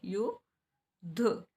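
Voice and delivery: युद्ध said very slowly, doubled द clear; slow युद्ध right down so each sound lands; slowed-down word. Shown as a demonstration. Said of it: "हम बहुत जल्दी बोल रहे हैं".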